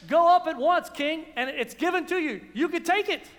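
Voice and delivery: overly eager, dripping with sarcasm; sarcastic. Acted. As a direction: prophet mocking the king. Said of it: "he's being sarcastic".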